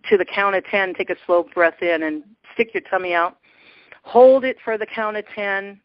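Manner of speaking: walk them through each breath calmly; guided breathing. Shown as a demonstration. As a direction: meditation guide voice. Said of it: "get ready to do a meditation".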